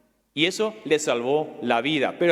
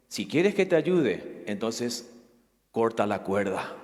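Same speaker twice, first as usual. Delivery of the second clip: low, soft, slow voice of God; a lower, hushed divine voice; 7 semitones lower, 4 dB quieter, slower than usual. Acted. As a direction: speak down calmly as God. God answers the climber in story.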